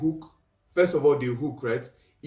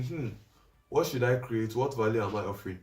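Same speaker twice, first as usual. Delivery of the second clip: pondering; 2 semitones lower, 3 dB quieter than usual. Shown as a demonstration. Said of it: "what tone do you want to say it in".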